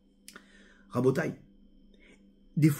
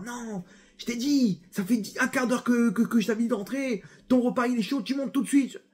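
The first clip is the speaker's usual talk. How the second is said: scolding mother; 5 semitones higher than usual. Retold or imitated. Mother insists Johnny come home now, higher stern scolding. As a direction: drag it out like a stern mum.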